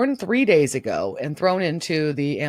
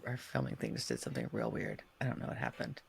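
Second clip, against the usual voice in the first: very hushed, low aside; real confused whispering; baffled whisper; 17 dB quieter, faster than usual. Real, not acted. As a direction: murmur it, puzzled. Baffled by recording software glitch.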